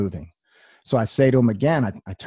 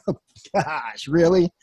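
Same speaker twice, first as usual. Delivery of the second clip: amused disbelief; 5 semitones higher, slower than usual. Retold or imitated.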